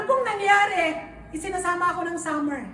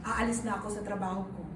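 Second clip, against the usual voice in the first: much softer and lower, hushed; soft retold prayer; 8 semitones lower, 8 dB quieter than usual. Retelling her prayer to the Lord, hushed and earnest. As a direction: pray it back quietly and earnestly. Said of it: "sabi ko, "Lord".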